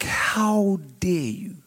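indignant whisper. Real, not acted. Rebuking the devil.

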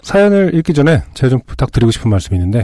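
husky, worn-out throat; hoarse voice. Real, not acted. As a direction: talk through a hoarse throat. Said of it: "목이 계속 잠길 것 같아요".

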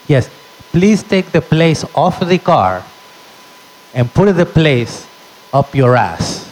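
slow, pointed, sweet-then-rude; mock sugary insult; mom telling off. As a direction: mom dismissing the clerk. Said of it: "My mom said".

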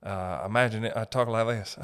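loosely sketched celebrity impression; lightly put-on singer's voice, halting; a famous singer. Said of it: "Didn't sound like that at all".

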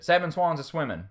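lightly imitated Southern dropped G, "swimmin'"; a hint of Southern drawn into "seven swans a-swimmin'"; Southern accent. Quoting the Southern contestant's answer, in a light Southern accent. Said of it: "She's a Southerner".

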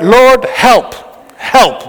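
imitating a plea. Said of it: "We look and we go".

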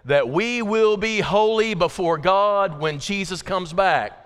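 measured, emphatic recitation for a group to join; leading group recitation. Real, not acted. Preacher has congregation say it together, leading group recitation. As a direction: recite it firmly so everyone can follow. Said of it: "Let's say it together".

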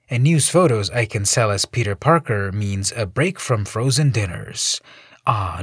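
a hint of a wisecracking hero, turning disgusted; quippy hero, then fed up with the crowd; lightly voiced Spider-Man.

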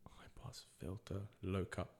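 slow, barely audible whisper; whispered musing. Real, not acted. Contestant puzzles over the answer to himself, whispering slowly. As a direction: whisper it to yourself while working it out.

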